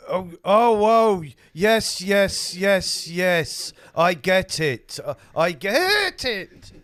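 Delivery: loud dawning realisation. Acted. Hangman finally gets the joke.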